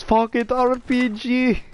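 high slow hyped yell; excited shout. Retold or imitated. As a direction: belt it out, pumped up. Excited call in game story.

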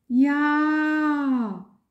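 hohes, lautes, frustriertes Ja; frustrierter Ruf. A narrator's reading. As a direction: genervt herausgerufen. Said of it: "rief sie voll Frust". (frustriert und laut gerufen)

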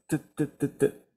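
T said softly several times, a crisp t each time; soft repeated t. Shown as a demonstration. Teacher drills the final t for students, soft and crisp. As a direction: tap out T, T, T quietly. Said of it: "al final tiene una T".

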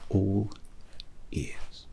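faint whisper, nearly gone at the end. Acted. Hatter repeats to the customer that he is listening, in a whisper. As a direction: breathe it out confidentially.

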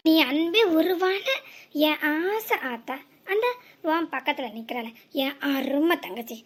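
slow, syrupy sarcasm; drawn-out mocking flattery; mock sweet praise. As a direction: lay the sweetness on thick and slow. Sarcastic praise of mother and sister.

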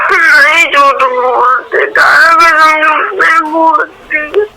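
crying. Real, not acted. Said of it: "બસ હવે રોવાનું બંધ કર યાર".

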